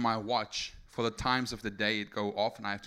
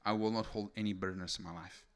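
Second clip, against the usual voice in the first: softer, sincere prayer; softer retold prayer, sincere and low-key; quiet prayer; 3 semitones lower, 5 dB quieter than usual. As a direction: hand it over gently to God. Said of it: "This is literally my prayer".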